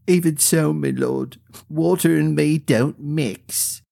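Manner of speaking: a timid common woman admitting she can't swim; Melody's voice. A narrator's reading.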